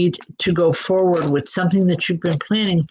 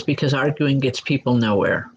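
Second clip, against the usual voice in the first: lowered, matter-of-fact relayed statement; point blank; 4 semitones lower than usual. Retold or imitated. Medium relaying a powerful man's words, mildly point blank. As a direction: put it point blank, a little low. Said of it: "he's being point blank about that".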